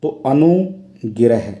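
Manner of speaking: अनुग्रह spoken slowly, each syllable drawn out; slow it down and spell अनुग्रह out by ear; careful demonstration. Shown as a demonstration. Teacher showing students how अनुग्रह is formed, slow and careful. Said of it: "अनुग्रह कैसे लिखा जाएगा".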